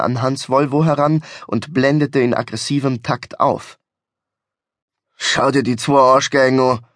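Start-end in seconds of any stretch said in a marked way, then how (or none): 5.2-6.8 mildly rumbling annoyance; growled grumble. Acted. Driver eyes two tailgaters in the mirror, understated growl. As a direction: grumble it in thick Bavarian, leaning on the insult. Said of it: "grollte Hans beim Blick in den Rückspiegel".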